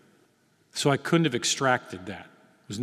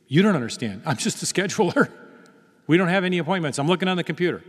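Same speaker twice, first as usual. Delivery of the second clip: higher-pitched mock scheduler, lively swoops; exasperated scheduler; 5 semitones higher, 3 dB louder, faster than usual. Scheduler telling a pushy caller there are no appointments, high-pitched mock protest. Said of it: "She goes".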